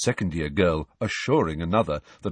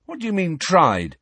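quick; 10 semitones higher, 3 dB louder than usual. Acted. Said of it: "said Ron quickly".

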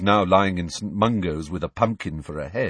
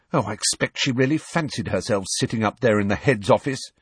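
vicious; 3 semitones higher than usual. Acted. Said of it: "said Hermione viciously".

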